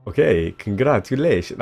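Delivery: put-on a slipped-in Italian accent, half-hearted; failed Zelda impression drifting into Italian; mock Italian accent. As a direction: try Zelda but land on an Italian accent. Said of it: "I've gone Italian".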